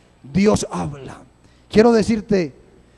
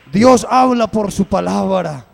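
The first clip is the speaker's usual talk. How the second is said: louder repeat, Dios hit hard; louder second take of Dios habla por su palabra; emphatic repeat; 6 dB louder than usual. Acted. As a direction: proclaim it to the whole church. Preacher repeats line louder.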